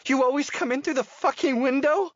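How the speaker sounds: high, loud snarl of a startled woman. A narrator's reading. Woman caught in her room snarls at the intruder. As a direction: spit it out as a snarl. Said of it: "she snarls".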